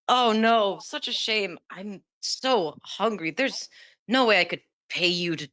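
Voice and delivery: mild mock regret; lightly put-on oh-dear act; feigned dismay. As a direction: pretend to be sorry, drawing out the words. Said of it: "pretend to drop it and be like".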